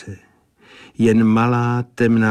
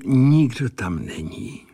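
pensive; 3 semitones higher than usual. Acted. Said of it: "řekl Sazeč zádumčivě".

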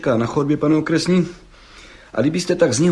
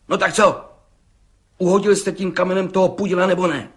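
higher, fast pressing question; impatient judge; 6 semitones higher than usual. Acted. Judge pressing the bricklayer for an answer, impatient. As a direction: hurry him for a yes or no.

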